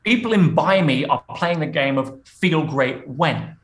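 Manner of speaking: measured, slow explanation; slow down so each word lands; deliberately slow. Shown as a demonstration. Coach contrasting the next game for listeners, said slowly. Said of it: "So I'll say it slowly".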